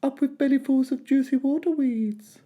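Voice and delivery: high, hooting dinosaur chant; high cheerful duckbill hoot. A narrator's reading. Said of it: "they hooted".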